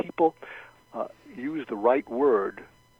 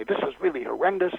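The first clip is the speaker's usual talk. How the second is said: higher, mildly upset complaint; frustrated venting; 5 semitones higher than usual. Acted. Coach voices a frustrated customer complaining, mildly upset. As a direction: vent it, with a touch of upset. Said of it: "what they're frustrated and upset about".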